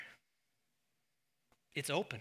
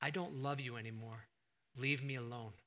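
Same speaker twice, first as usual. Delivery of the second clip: hurtful quote; 4 semitones lower, 6 dB quieter than usual. Acted. Spouse rejecting, voiced quote.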